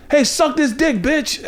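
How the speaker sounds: very high, hammed-up sleazy catcall; mock crude catcall. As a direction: squeal it like a cartoon creep. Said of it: "You would never be like".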